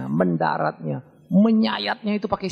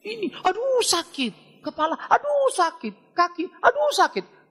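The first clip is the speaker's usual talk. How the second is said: high, slow whiny aduh at every body part; moaning patient; 12 semitones higher, slower than usual. Retold or imitated. Bedouin patient complains to the doctor, high slow moaning. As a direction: groan as if everything hurts. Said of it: "orang Beduin, dia pergi berobat".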